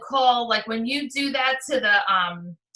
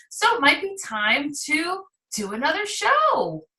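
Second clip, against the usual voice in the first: lightly sing-song, routine and unexcited; a dutiful call you don't really care about; sing-songy matter of fact. Shown as a demonstration. Consultant calling a past hostess, flat sing-song routine. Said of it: "sing-songy matter of fact to her".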